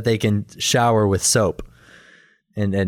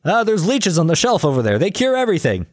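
hammed-up quack doctor; apothecary; 8 semitones higher, faster than usual. Apothecary answers the lady.

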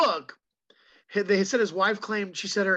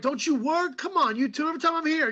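movie gangster; 8 semitones higher than usual. Retold or imitated. Quoting a character from the film.

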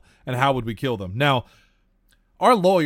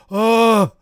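high, loud nasal-free Milhouse "Oh"; Milhouse impression; 7 semitones higher, 10 dB louder than usual. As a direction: squeak it out like Milhouse. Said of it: "she hit us with that Milhouse".

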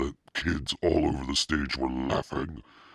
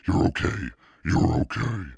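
loud reassurance; 5 semitones higher, 5 dB louder than usual. A narrator's reading. Friend calming panicked girl.

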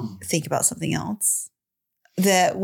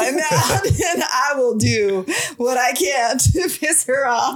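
higher, slowed-down imitation of a mad partner; mock spiteful anger; 4 semitones higher, slower than usual. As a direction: play up the petty spite, half laughing. Acts out partner's spiteful mad thoughts.

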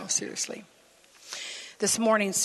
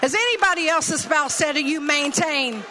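excited question; 7 semitones higher, 6 dB louder than usual. Real, not acted. Asking the congregation.

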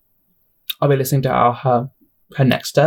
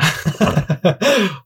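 cracking laugh; 4 semitones higher than usual. Real, not acted. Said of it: "oh, my voice cracked".

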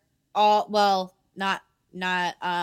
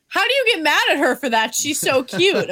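gushing protest; 5 semitones higher, 5 dB louder than usual. Retold or imitated. Mock protest defending cute character.

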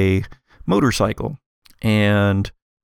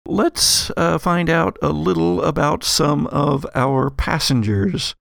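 measured game master narration, slightly raised pitch; scene setting; 4 semitones higher than usual. Acted. Game master introducing ferry passengers to players, scene setting.

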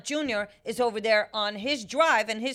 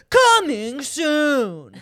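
slow, louder dramatic announcement; trailer voiceover; 4 semitones higher, 6 dB louder, much slower than usual. Shown as a demonstration. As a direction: draw it out like a trailer. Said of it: "trailer voiceover".

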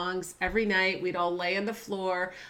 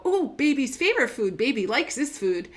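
imitating daughter; 4 semitones higher, 5 dB louder than usual. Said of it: "she'd go".

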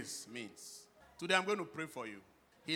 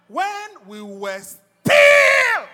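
preaching at full force; 8 semitones higher, 13 dB louder, slower than usual. Acted. Preacher quoting scripture to the church, fervent loud preaching. Preaching Romans five eight.

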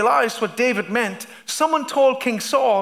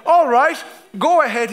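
Saul's loud consent; 2 semitones higher, 5 dB louder than usual. Acted. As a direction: give the go-ahead with a lift. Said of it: "he said".

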